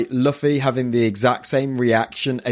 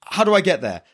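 Luffy quote; 6 semitones higher than usual. Retold or imitated. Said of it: "So Luffy's like".

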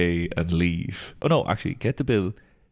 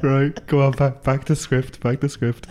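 laughing shout; 6 semitones higher, slower than usual. Real, not acted. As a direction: yell it through laughter. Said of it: "urging friend on".

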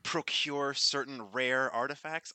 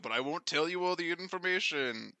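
mocking imitation. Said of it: "I'm gonna imitate him".

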